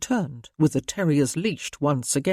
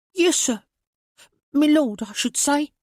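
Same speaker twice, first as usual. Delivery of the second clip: put-on timid boy; 10 semitones higher than usual. A narrator's reading. Boy corrects himself.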